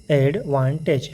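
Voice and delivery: एडवांटेज said very slowly, syllable by syllable; slow learner's reading of एडवांटेज; broken into syllables. Shown as a demonstration. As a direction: sound out एडवांटेज in separate slow chunks like a beginner. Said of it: "शुरू में जब learning कर रहे हैं तो हम ऐसा ही पढ़ते हैं".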